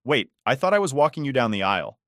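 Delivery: retold stunned reaction; shocked. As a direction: object in mild disbelief, voice lifted. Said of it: "totally shocked".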